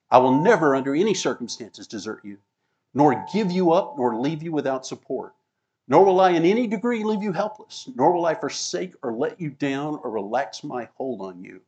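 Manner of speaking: building emphatic proclamation. Acted. Reading the Amplified promise emphatically.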